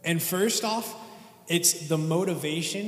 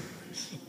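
nervous laugh; 15 dB quieter than usual. Real, not acted. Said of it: "Sorry, I'm nervous".

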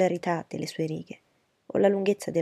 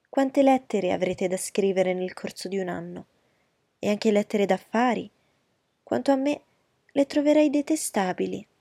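fawning society lady; 2 semitones higher, 4 dB louder than usual. Acted. Miss Bingley voiced.

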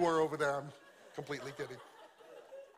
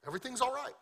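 stubbornly fine; 8 semitones higher, faster than usual. Acted. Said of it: "that's her story, and she's sticking to it".

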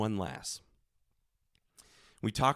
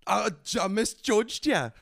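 put-on higher, halting Scottish accent; amateur Scottish brogue, pitched up; bad Scottish accent; 7 semitones higher than usual. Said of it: "as well as I do a Scottish accent".

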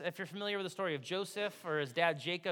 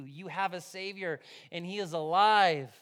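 usual speaking voice

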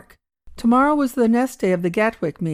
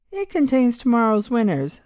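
casual; 4 semitones higher than usual. Acted. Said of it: "in the same casual manner".

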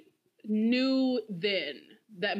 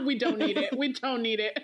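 laughing. Real, not acted. Repeated through laughter.

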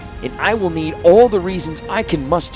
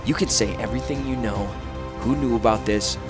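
icy. A narrator's reading. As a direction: demand answers coldly. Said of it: "Urza said icily".

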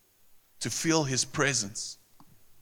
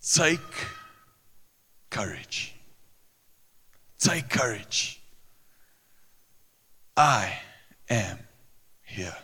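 slow, softening, drawn-out; tender reassurance; 4 semitones lower, 3 dB quieter, slower than usual. A narrator's reading. Jesus reassuring the disciples, slow and tender. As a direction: reassure them word by word.

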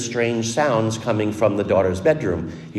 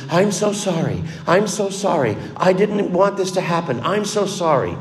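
retold sobbing apology; 7 semitones higher than usual. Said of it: "in the midst of all of his sighing and sobbing".

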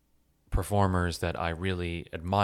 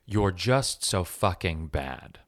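each word dropped slowly and coldly; slow cutting verdict; slower than usual. Retold or imitated. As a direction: let it land slowly, like a blow to the heart. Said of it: "But what my heart felt was".

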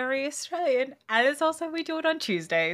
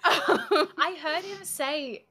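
ordinary talk

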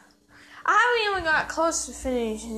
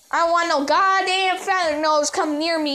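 loud rant; 4 semitones higher, 3 dB louder than usual. Acted. Ranting at feather nose.

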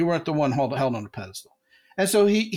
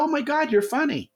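high, delighted "Oh my God" from her; woman impressed by his joke, high and delighted; 10 semitones higher than usual. Retold or imitated. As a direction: imitate a woman charmed and surprised. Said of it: "And she'll go".

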